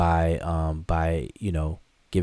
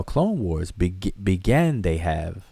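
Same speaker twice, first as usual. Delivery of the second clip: slow Yoda line; slower than usual. Retold or imitated. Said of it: "my cheap Yoda impression".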